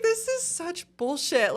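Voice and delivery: slow, drawn-out disgusted complaint; fed-up grumble. Retold or imitated. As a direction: stretch out the annoyance, slowly. Retold complaint while crying on bed.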